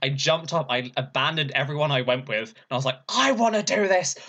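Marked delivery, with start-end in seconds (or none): 3.1-4.2 excited yell. Retold or imitated. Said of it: "I started screaming really loudly".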